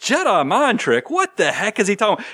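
a touch of bewildered disbelief; puzzled listener. Retold or imitated. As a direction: echo it like a confused listener who never heard of it. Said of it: "you hear that and you're like".

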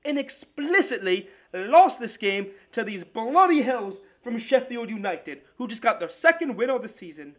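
a hammed-up amateur English sportscaster accent, pitched a bit up; a sports-desk read in a clumsy English accent; a playful, overdone English accent for the soccer segment. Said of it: "do a bit of an English accent".

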